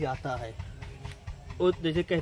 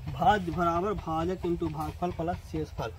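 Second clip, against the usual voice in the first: slow, word-by-word reading of भाज्य बराबर भाजक into भागफल plus शेषफल; slow formula read; slower than usual. Shown as a demonstration. Teacher to students, reading the formula slowly off the board. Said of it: "देखिए यहाँ सूत्र है ना".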